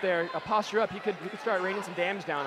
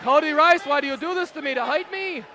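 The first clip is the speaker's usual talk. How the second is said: high, loud kvetching upspeak; Jewish upspeak voice; 9 semitones higher, 6 dB louder, slower than usual. Pretend. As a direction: complain to him like a Yiddish grandmother. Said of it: "I do the Jewish upspeak voice".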